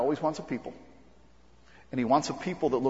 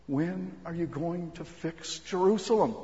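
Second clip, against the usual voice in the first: slow, higher-pitched imitated plea; imitated crying out; 4 semitones higher, slower than usual. Jewish people praying for Jerusalem, imitated crying out. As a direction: cry out a drawn-out question, without extra volume. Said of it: "they would cry out".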